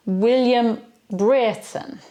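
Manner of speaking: "Brereton" said as BRIT-un, two syllables; correct pronunciation. Shown as a demonstration. Teacher names the executed courtier properly. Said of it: "that's how it's pronounced".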